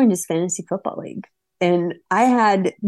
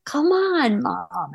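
put-on whiny teen protest; 5 semitones higher, much slower than usual. Sleepy son protesting.

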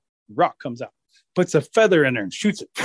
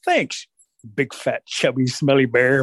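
sarcastic thanks; slower than usual. Acted. Rabbit's parting sarcastic jab.

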